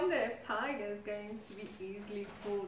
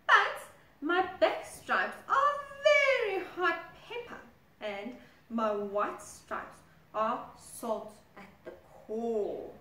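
proud zebra; 2 semitones higher, 6 dB louder than usual. Acted. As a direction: boast about the stripes. Zebra retorts.

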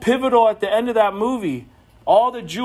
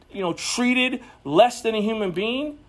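normal talking voice

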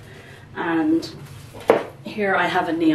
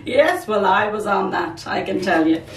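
higher, louder, eager agreement; eager yes; 3 semitones higher, 4 dB louder than usual. Retold or imitated. Answering her husband about the puppy, higher, louder, eager agreement. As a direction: jump at the offer. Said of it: "I'm like".

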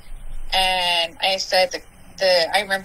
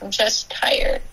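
slow, breathy, near-crying "I'm just tired"; retold tearful whisper to the cop; teary whisper; slower than usual. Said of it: "And I remember crying".

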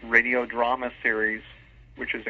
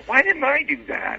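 a high, louder cry of mock dismay; exasperated self-reproach; 4 dB louder than usual. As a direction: throw up your hands, kicking yourself in jest. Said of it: "And I, and I go".

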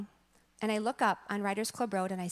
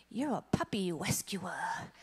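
awed whisper; 2 semitones lower, slower than usual. Retold or imitated. Son's awed reply.

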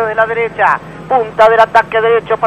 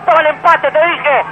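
goal commentary; 5 semitones higher than usual. Real, not acted. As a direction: shout the goal in triumph. Free kick goal call.

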